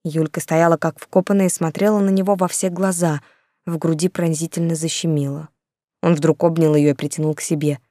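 usual speaking voice

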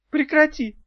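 high, loud desperate plea; pleading. A narrator's reading. Succubus begging Daf in panic. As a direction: beg her to stop. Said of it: "взмолился суккуб".

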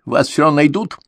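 angry. A narrator's reading. Angry young man continues.

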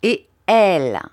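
quick urgent demand; eager question. Acted. Aunt pressing the doctor about the baby, urgent. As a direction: press him hard for news. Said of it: "demanda vivement ma tante".

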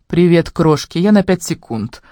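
lightly mincing, slow. Acted. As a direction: say it a touch mincingly. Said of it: "жеманно произнёс он".

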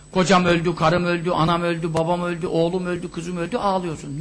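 low, softening monotone list; mock mourner's litany. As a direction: imitate mourners droning through their losses. Mimics mourners listing their dead.

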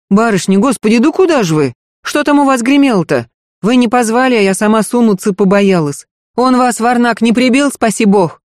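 a panicked housemaid running up; flustered maid. Acted. Marfa voiced high, breathless.

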